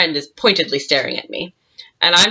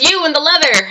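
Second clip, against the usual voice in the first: calling out; 9 semitones higher, 3 dB louder than usual. Retold or imitated. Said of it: "he calls out to me".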